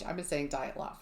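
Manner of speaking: Dyatlov said as DIE-at-lov; wrong Dyatlov. Shown as a demonstration. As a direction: Dyatlov with a long I sound in the first syllable. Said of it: "I've been saying it wrong".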